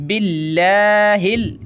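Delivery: "बिल्लाहिल" with a light L and open aa; thin Allah. Shown as a demonstration. Teacher showing the light reading, "बिल्लाहिल" with thin L. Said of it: "लफ्ज़ अल्लाह को पतला करेंगे".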